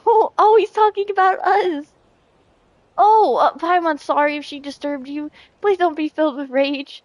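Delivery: flustered apology. Acted. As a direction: stammer out a nervous apology. Voicing character, flustered reply.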